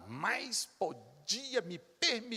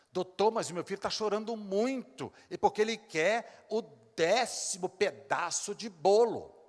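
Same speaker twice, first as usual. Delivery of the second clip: higher, louder whiny mother; pleading mother; 6 semitones higher, 6 dB louder than usual. Retold or imitated. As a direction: whine to the doctor as the mother. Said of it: "mother pleading to doctor".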